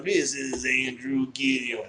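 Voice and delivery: slow, stiff robot voice; a bad robot imitation. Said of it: "That's a terrible robot voice".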